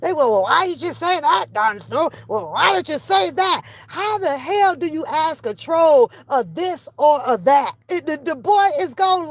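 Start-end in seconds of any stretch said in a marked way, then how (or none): 0.3-3.6 mock questioning. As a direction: mimic nagging questioners. Mimicking nosy questioners.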